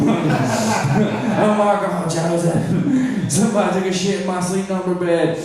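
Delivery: lightly voiced Dom DeLuise impression of mom, laughing; a hint of Dom DeLuise as his upset mom. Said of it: "a Dom DeLuise voice for my mom".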